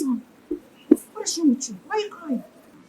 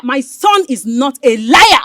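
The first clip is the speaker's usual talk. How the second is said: slow, loud, every word pressed; a mother shouting back at her rival; shouted defense; 5 dB louder, slower than usual. Acted. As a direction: shout it to defend your son.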